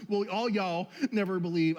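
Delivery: the line with a mild Texan "all y'all"; Texas version. Pretend. Pastor riffing on the congregation's regional versions, a mild mock Texan accent. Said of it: "the New Texas version".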